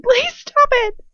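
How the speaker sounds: drawn-out, piercingly high plea; scream. A narrator's reading. Hermione begging Bellatrix to end the torture, screaming. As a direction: beg at the top of your voice, slowly. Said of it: "I scream".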